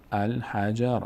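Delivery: الحجر measured, syllable by syllable; sounded-out example. Shown as a demonstration. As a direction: repeat الحجر carefully for learners. (شمرده برای آموزش)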